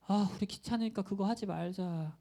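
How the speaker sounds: mock can't-be-bothered whine; lazy reluctance. Preacher imitating a lazy friend talking you round, mock reluctant. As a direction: play a friend wriggling out of effort. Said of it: "막 이런 친구들 있죠".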